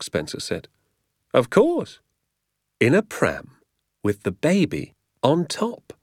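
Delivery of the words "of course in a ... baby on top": high, dawning wonder; delighted realisation. Acted. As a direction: work it out aloud in high-pitched delight. Doctor delightedly grasps the trick.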